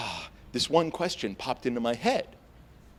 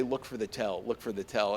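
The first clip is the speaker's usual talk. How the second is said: poker advice murmur; 3 semitones lower, 6 dB quieter than usual. Retold or imitated. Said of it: "they always say".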